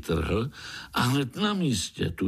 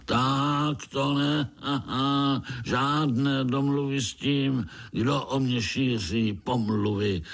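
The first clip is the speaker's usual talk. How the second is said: roaring; 4 semitones higher than usual. Acted. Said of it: "zařval Piši škvor".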